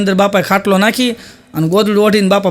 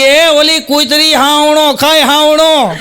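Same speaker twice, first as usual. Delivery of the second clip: put-on blurted old man; 6 semitones higher, much slower than usual.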